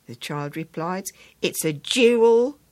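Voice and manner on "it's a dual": slow, breaking into real laughter on the punchline; can't hold back a laugh; laughing through it. Real, not acted.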